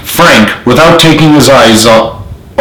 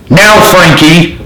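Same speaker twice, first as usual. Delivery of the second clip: signal shout; 6 semitones higher, slower than usual. A narrator's reading.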